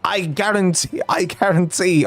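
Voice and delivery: a hint of a fake French accent; French teacher promising good grades, fake French accent; mock French accent. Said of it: "I don't know what this accent is".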